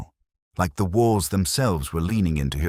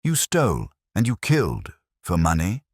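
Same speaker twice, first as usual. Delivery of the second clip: high, louder, hurled at him in disbelief; anguished accusation; 5 semitones higher, 4 dB louder than usual. Acted. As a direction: throw the accusation in his face. Widow accuses the killer.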